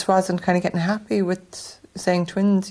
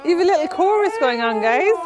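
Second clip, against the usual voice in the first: high, bright talk to babies; 11 semitones higher, 5 dB louder than usual. Real, not acted. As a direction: coo at the crying babies. Mother speaking to her babies.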